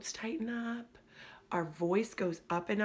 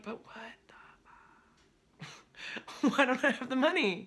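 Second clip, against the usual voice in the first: whispered start bursting into a laughing, higher outcry; mock frustrated client; 7 semitones higher than usual. Coach voicing a client's confusion about money, whisper then laughing outburst. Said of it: "And then you're like".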